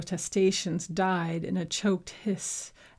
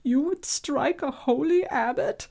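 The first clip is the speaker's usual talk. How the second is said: indignant abbot; 7 semitones higher, 5 dB louder than usual. Acted. Abbot indignant after punch.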